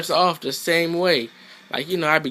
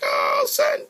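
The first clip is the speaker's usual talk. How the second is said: high squeaky character voice. Retold or imitated. Gamer voicing his fighter spotting the wall, squeaky high cry. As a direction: squeal it like a hyped-up little character. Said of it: "I was like".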